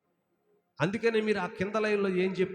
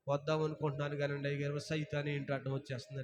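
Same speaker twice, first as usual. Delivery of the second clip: mock excuse; 4 semitones lower, 6 dB quieter, faster than usual. Mocks a believer's excuse to pastor.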